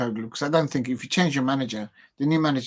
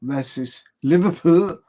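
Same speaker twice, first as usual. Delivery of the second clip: Scouser accent; 4 semitones higher, 5 dB louder, slower than usual. Shown as a demonstration. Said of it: "That was my Scouser accent".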